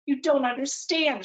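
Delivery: a daughter's pleading protest, lightly acted; desperate. Daughter desperately pleading with her parent in the store. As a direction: plead as if nobody is listening. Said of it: "she says desperately".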